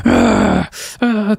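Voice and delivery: mock child fussing. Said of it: "his kid's on the steps all like".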